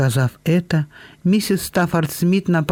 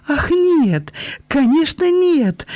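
much higher, eager reassurance; quick promise; 12 semitones higher, slower than usual. A narrator's reading. Белинда поспешно обещает тёте, что не уедет, горячо и высоко. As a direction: rush to promise, almost crying out. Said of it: "быстро пообещала Белинда".

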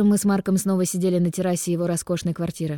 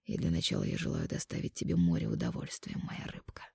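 pillow talk; 3 semitones lower, 10 dB quieter than usual. Acted. Mark whispers seductively.

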